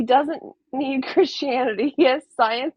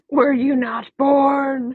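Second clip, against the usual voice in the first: mock indignant quote; 5 dB louder, much slower than usual. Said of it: "This is my favorite thing".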